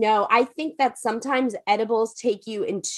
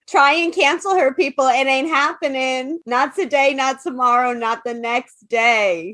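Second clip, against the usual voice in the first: mock defiance; 3 semitones higher, 4 dB louder than usual. Hyping her friend up against imagined cancellers, sassy and loud. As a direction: taunt the cancellers, playfully.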